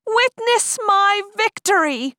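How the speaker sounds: high, slow, booming proclamation; dark lord. Acted. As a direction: proclaim triumph like a demon lord. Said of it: "the boy proclaimed".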